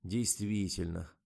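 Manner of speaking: slow, drawn-out calm agreement; relaxed relief. A narrator's reading. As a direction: let the tension go, slowly. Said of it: "расслабился режиссёр".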